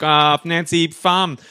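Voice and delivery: slow, halting made-up name; hesitant, groping for words. Retold or imitated. Nancy stalls, inventing a fake name under questioning, slowly. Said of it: "She's thinking, she's like".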